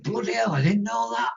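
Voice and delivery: be a big biker caught off guard; amazed bloke in a pub; surprised biker. Retold or imitated. Surprised biker voiced in story.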